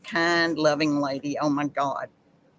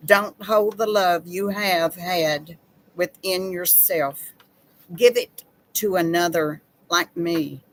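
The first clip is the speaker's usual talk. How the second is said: poem reading. Acted. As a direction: read it tenderly, line by line. Reads pet memorial poem aloud.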